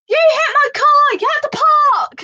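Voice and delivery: high, loud scolding; angry demand. Retold or imitated. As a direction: order her to park, angrily. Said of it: "She was like".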